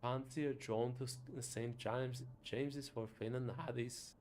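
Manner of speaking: put-on another go at a Scottish accent; retried Scottish accent. Inviting a friend to Finn and Haddie's, retried Scottish accent. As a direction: reach harder for the Scottish burr. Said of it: "which accent is Scottish".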